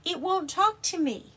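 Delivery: high, loud worried dragon; upset dragon complaining. Acted. Dragon voiced in story.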